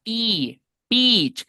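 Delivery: high, stretched ee, then BEACH with that same ee; long i, smiling. Shown as a demonstration. Teacher telling students to smile, long i. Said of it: "sonría".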